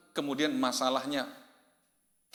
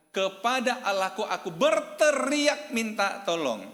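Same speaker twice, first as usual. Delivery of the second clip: slow, raised cry from the psalm; emphatic psalm reading; 9 semitones higher, 5 dB louder, slower than usual. Acted. Preacher reads David's cry for help to the congregation, emphatic and slow. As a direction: read it out high, loud and drawn out.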